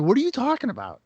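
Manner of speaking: high-pitched, puzzled comeback; retold bafflement. Replying to coworker about Razor Ramon, mock baffled. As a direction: act out being baffled, pitch jumping up.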